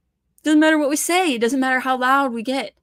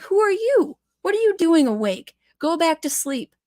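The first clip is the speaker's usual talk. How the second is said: higher, lightly voiced sneering official; mock the dismissive officials, pitched up; 6 semitones higher than usual. Mimicking officials brushing off the public, lightly mocking higher voice. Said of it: "They're like".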